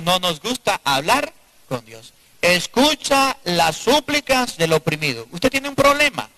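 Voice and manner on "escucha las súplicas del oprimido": measured, solemn sermon reading; slow scripture reading. Acted. Preacher reads scripture slowly to congregation. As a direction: read the verse slowly to the church.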